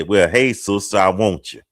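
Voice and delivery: mock-bold party approach; blunt come-on. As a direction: put it bluntly, like a direct proposition. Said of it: "can I be that blunt".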